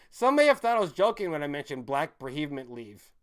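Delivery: reading the article aloud, a bit formal. Shown as a demonstration. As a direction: read it out like a statement. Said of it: "there we go".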